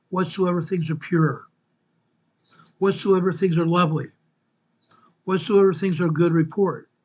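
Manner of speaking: measured preaching cadence, each "whatsoever" leaned on; lightly intoned scripture recital; scripture reading. Acted. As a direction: read it like a sermon from the pulpit.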